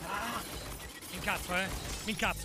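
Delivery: low, soft grumble; grumbled warning. Real, not acted. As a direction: grumble it low, under your breath. Brontola dopo l'azione fallita. (brontolio sommesso)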